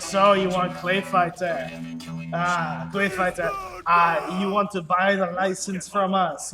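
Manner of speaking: imitating a French business guy with a light Parisian French accent, slow; a mock Parisian French accent, drawn out as if chomping on a cigar. Parisian licensing rep pitching to the indie dev, mock French accent. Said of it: "heavy Parisian French accent".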